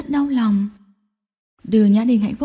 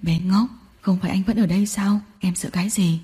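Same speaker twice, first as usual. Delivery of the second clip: low, soft scolding sinking to a whisper; tender reproach; 4 semitones lower, 4 dB quieter than usual. Acted. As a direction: chide her lovingly. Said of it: "đau lòng trách cứ". (trách yêu đau lòng, thì thầm)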